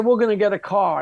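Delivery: firm, steady declaration; confident insistence. Retold or imitated. Telling the rental skeptics firmly, confident insistence. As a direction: say it like it's already done. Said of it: "I said".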